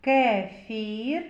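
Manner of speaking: "Кефір" with the "е" held long; sounding out E. Shown as a demonstration. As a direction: stretch the first vowel of "Кефір". («Кефір» з протяжним «е»)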